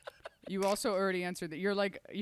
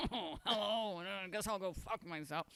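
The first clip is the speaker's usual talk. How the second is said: silly put-on pet voice, slightly raised; Chachi voice; 2 semitones higher, 4 dB quieter than usual. Doing the Chachi voice out in public, silly put-on voice. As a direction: slip into a goofy character voice. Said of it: "doing my chachi voice out in public".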